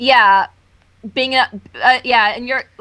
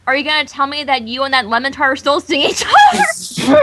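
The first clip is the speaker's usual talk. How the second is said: mock accusing shout.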